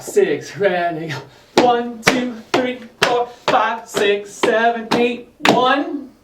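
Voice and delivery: rhythmic count called to the beat; counting dance beats. Shown as a demonstration. Counting beats for tap drill.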